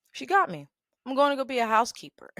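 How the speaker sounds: gleeful admission of defeat; "She got me." with a lifted, laughing "got"; excited emphasis. Shown as a demonstration.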